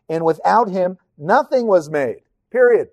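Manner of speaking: a verse cut short with a punched "period"; emphatic full stop. Shown as a demonstration. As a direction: hit "period" hard. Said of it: "Could have ended there".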